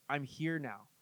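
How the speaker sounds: gentle, hushed comfort; calming. Retold or imitated. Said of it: "He just calms everybody down".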